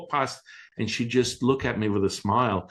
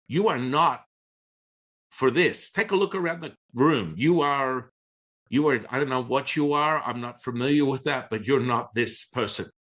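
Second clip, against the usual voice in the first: dismissive teacher; 5 semitones higher than usual. Retold or imitated. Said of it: "all of a sudden his personality's like".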